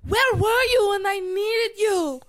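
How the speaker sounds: hammed-up sobbing accusation; mock crying yell. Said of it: "she's like".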